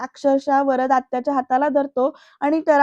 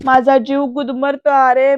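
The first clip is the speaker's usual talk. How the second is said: loud, pained cry of suffocation; anguished cry; 5 dB louder than usual. Retold or imitated. Bayo crying out that she is suffocating. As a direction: cry it out in distress.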